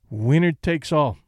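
slow, flat and final, each word set down; a slow, final verdict spoken with calm weight; with finality. Acted. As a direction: state it so nobody can argue, slowly. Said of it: "he said with finality".

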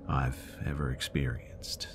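slow whispered close. Real, not acted. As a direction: whisper it slowly, spooked. Creepy ending, whispered.

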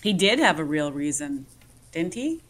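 dry, low-pitched sarcasm; sarcastic. Real, not acted. Co-host needling the political analyst about the election, sarcastic. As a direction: feign agreement with a sly tag question. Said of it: "I'm being sarcastic".

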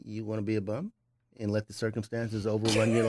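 flat, deadpan challenge; monotone. Real, not acted. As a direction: say it dead flat and blunt. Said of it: "your monotone voice of how you said it".

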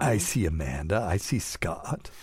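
a hint of a kids' TV host, unhurried; Romper Room host. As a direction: greet the viewers like a children's TV host. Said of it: "I sound like Romper Room again".

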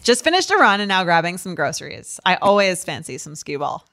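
lightly voiced Long Island girl; a hint of Long Island girl. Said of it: "I'll be this girl probably from Long Island".

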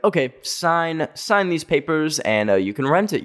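traces of a mock French accent. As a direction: imitate the French owner, holding the accent back. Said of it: "we're not doing the accent".

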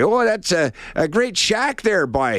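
high, slow mock Canadian accent, Canadian accent; hammed-up Canadian tourist on House Hunters. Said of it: "that's not an Ontario accent".

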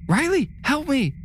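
high terrified scream for help. A narrator's reading. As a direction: scream it in panic. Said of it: "Callie screamed".

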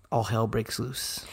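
whispered for suspense; whispered, ominous build-up; dramatic whisper. Real, not acted. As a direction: hush it like a storyteller's twist. Dramatic turn in the story.

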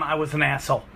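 put-on a forty-year-old quietly owning up; quiet regretful admission. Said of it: "read that and go".

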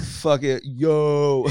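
loud, high reckless holler; hyped-up acted impulse; mock manic shout. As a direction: throw it out like a manic battle cry. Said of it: "when I'm manic".

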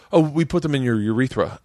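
imitating a businesslike explanation; casual, unbothered retold answer; matter-of-fact. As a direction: say it as routine, with no fuss. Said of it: "a real matter of fact".

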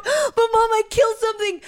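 put-on teen wailing to mom after hitting a squirrel; crying. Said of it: "I was just, like, crying".

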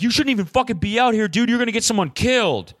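high-pitched indignant telling-off; retold angry scolding. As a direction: scold like an outraged local surfer, pitched well up. Retold angry surfer scolds friend.

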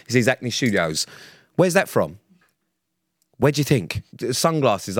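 high, heated rant; fed-up rant about stupid comments. Real, not acted. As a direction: vent your irritation, pitch up. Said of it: "really triggered Pete".

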